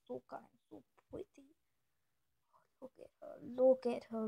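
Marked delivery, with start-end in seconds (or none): 0.1-1.5 soft gushing. Real, not acted. Gushing about her cat. 2.8-3.4 hushed look at her, almost breathless; whispered coaxing; whispered urging. Shown as a demonstration. Softly urging viewers to look.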